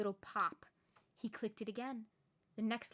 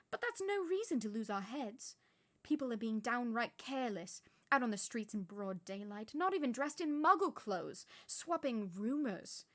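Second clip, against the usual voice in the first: louder scolding teacher; scolding witch; 4 dB louder than usual. Acted. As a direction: lecture him, cross. McGonagall scolds.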